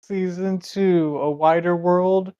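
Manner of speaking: slow, measured title reveal; mock title announcement. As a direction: announce it like the next season's title. Announces a season title, game master.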